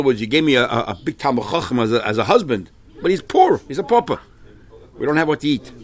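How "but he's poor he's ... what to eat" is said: acted complaint. Daughter complaining to her father, acted.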